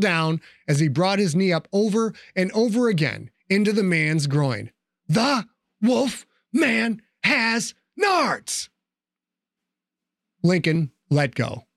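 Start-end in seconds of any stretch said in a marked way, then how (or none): 5.1-8.7 high, very slow shouted taunt; triumphant shout. Acted. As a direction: bellow each word as he strikes. Yelled while kneeing him.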